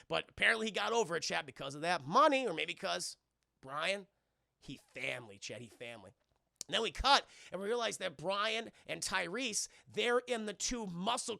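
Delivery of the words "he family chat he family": mumbled meme. Retold or imitated. Meme phrase muttered.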